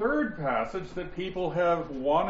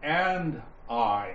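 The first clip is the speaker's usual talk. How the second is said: the word I set apart and stressed. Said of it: "emphasize ... the word I".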